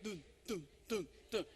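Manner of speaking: low thumping heartbeat imitation; heartbeat sound. Shown as a demonstration. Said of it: "You can hear it".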